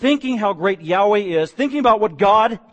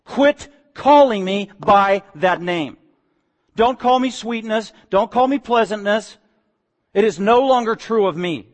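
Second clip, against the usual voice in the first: angry Naomi; 3 semitones higher, 4 dB louder than usual. Acted. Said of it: "she got angry".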